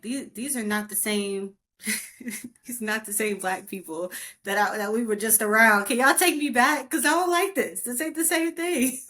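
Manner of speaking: mock-whiny child begging to go home; childish plea to mom. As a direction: plead like a homesick little girl.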